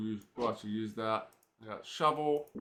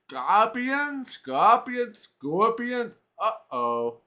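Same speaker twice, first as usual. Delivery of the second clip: muttered; 10 semitones higher, 8 dB louder, much slower than usual. Acted. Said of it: "Owen muttered himself".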